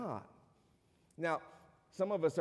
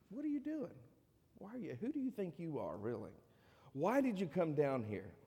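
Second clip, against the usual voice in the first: sharp high-pitched challenge to the younger brother; a big brother scolding, voice jumping up then fading; angry older brother; 4 semitones higher, 3 dB quieter than usual. Acted. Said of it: "He's angry".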